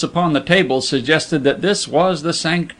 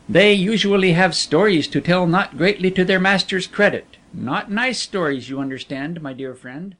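veiled editor, sly then fading; 4 semitones higher than usual. Acted. Veiled editor on servants' stories.

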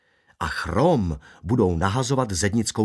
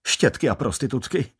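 firm, blunt declaration; resolute; 2 semitones higher than usual. Acted. Barber asked his opinion of bikinis, answering resolutely. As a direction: pronounce judgment like an opinionated barber. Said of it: "prohlásil rezolutně".

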